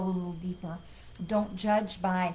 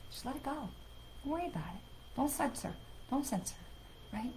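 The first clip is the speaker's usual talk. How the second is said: channeling voice. Acted. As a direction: speak as a calm channel for spirit. Channels a spirit message.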